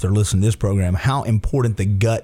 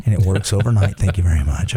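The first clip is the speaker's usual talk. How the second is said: low, creepy commercial voiceover; 4 semitones lower than usual. Pretend. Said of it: "That's my creepy voice".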